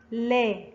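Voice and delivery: slow model syllable لا; لا with fatha. Shown as a demonstration. Teacher showing learners lam with fatha, لا sounded out slowly. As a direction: draw out لا slowly, light l and front a. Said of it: "ينطق".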